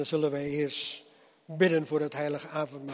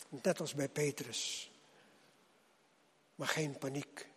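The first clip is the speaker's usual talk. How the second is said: preaching. Acted. Preacher addresses the congregation.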